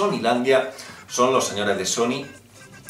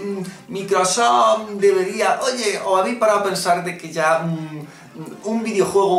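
higher, sarcastic questioning; mock earnest voice; 6 semitones higher than usual. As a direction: pretend to plead in a put-on voice. (tono sarcástico y fingido)

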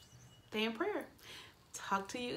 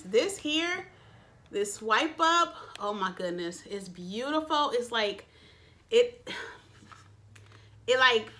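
a little excited. Real, not acted. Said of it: "I'm getting a little excited".

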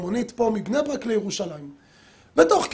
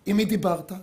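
calm tone; 3 semitones lower than usual. Retold or imitated. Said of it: "בטון כזה רגוע".

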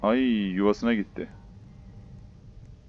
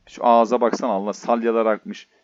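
being chased; 6 dB louder than usual. Real, not acted. Bir de beni kovalıyor.

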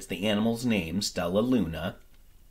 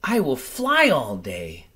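a small bat voice, resolved; determined little bat; 3 semitones higher than usual. Acted. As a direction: tell herself firmly. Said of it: "Stella Luna told herself".

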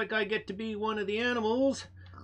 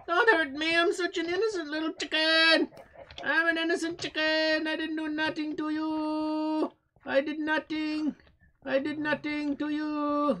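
pleading little chicken; 4 semitones higher than usual. Pretend.

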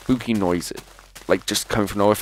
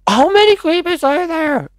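much higher, squeaky, louder panic; panicked squeak; 7 dB louder than usual. Real, not acted. Surrounded by creepers at night, panicked squeak. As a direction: squeal it out in alarmed disbelief.

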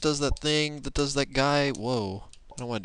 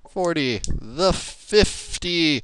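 sportscasting; 6 dB louder, slower than usual. Pretend. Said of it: "Why the hell am I sportscasting?".

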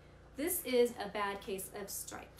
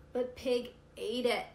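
whining; 3 semitones higher, 5 dB louder than usual. Acted. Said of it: "whined Turtle".

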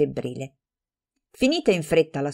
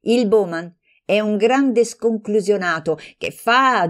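heated dismissal; 4 semitones higher than usual. Acted. Heated quarrel between friends.

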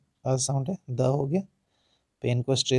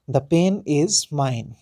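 slow, louder, "pain" stressed and falling; 5 dB louder, much slower than usual. Shown as a demonstration. Teacher models stress pattern for students, "pain" leaned on. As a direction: lean on "pain", rush "The". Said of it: "द को जल्दी से पढ़ेंगे".

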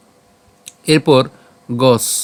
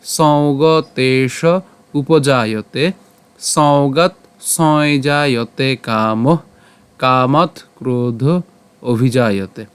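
measured, drawn-out shloka recital; slow verse recitation; much slower than usual. Shown as a demonstration. Teacher reciting the Gita verse to the class, slow and measured. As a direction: chant the Sanskrit verse slowly, word by word. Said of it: "আবার প্রথম থেকে বলি".

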